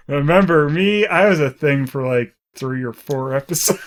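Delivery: lightly acted forgotten character announcing herself; mock villain comeback. Co-host voices an ex-girlfriend returning, loud mock announcement.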